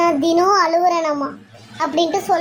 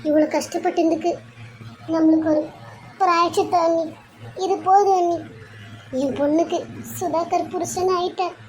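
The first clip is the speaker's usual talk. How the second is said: tearful relief; 3 dB quieter than usual. Acted. Relieved mother weeping after wedding.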